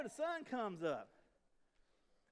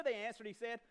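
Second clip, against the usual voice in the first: ordinary delivery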